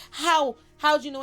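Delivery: Lestat stunned. Retold or imitated. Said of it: "And he was like".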